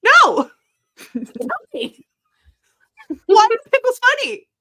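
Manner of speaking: high, loud playful insistence; mock pleading. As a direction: beg the toddler for the answer.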